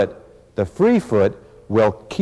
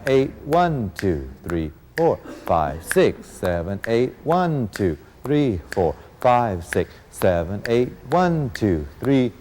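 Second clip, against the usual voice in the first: counting class steps; slower than usual. Shown as a demonstration. Teacher calling the eight count while students dance, rhythmic count.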